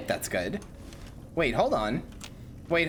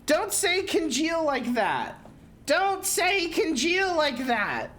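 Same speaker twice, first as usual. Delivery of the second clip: mock pleading; 14 semitones higher, much slower than usual. Mock outrage, much higher slower.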